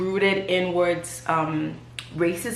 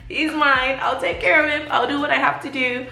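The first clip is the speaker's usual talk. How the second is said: defiant resolve; 8 semitones higher, 3 dB louder than usual. Retold or imitated. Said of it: "I was like".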